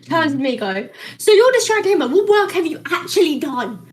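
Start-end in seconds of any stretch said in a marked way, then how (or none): 1.2-3.9 retold yelling. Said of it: "And starts yelling at me".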